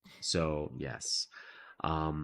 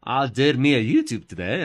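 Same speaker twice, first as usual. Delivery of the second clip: put-on hillbilly accent; 6 dB louder than usual.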